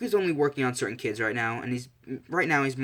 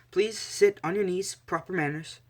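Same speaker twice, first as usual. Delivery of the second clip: higher, slow voice of an instructor; lightly acted teacher's request, raised pitch; instructing teacher; 7 semitones higher than usual. Teacher tells the class to sit properly, higher slow instruction.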